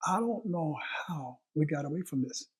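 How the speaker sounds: hushed aside, barely voiced; whisper. Real, not acted. Pastor lamenting to the congregation, whispered. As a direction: drop to a whisper as if confessing.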